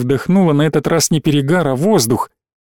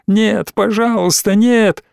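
higher, rising to a cry on the last no; desperate pleading; 6 semitones higher, slower than usual. Acted. Alina pleading with Igor to stop, frightened. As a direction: beg him to stop.

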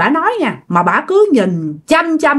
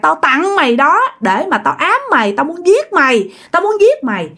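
unrelenting blame; 5 semitones higher than usual. Acted. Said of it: "bà nhất quyết bà không chịu".

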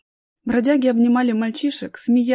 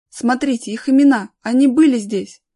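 loud, raised exclamation; acted excitement, getting louder; excited discovery; 3 semitones higher, 9 dB louder than usual. A narrator's reading. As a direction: share a thrilling find with the group. Discovering the children's names.

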